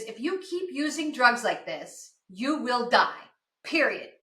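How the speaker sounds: slow, deliberate doctor's warning; grave warning. Retold or imitated. Doctor warning an addicted patient, slow and emphatic. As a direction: spell it out slowly, word by word.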